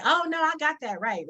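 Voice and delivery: high-pitched mock assurance; imitating dismissive people. Host imitating people who mispronounce names, breezily dismissive. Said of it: "They just are like".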